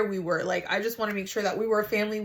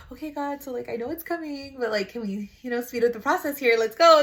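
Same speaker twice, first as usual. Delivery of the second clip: impatient; 3 semitones higher than usual. Retold or imitated. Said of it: "my thing is impatience".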